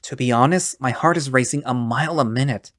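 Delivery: shaky, cracking voice. Acted. Fred to his returned friend Chad, shaky and tearful. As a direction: voice cracking on every syllable, close to tears. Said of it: "Fred's voice is unbearably shaky, cracking and splintering".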